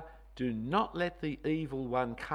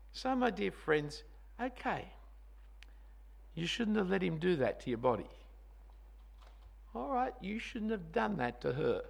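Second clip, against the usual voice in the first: gentle consoling; 4 dB quieter than usual. Acted. Consoling guilty listeners.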